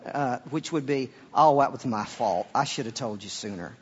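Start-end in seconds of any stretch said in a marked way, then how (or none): 1.3-3.8 lightly put-on Southern GPS voice; a hint of really Southern speech; Southern accent. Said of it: "And then it's really Southern".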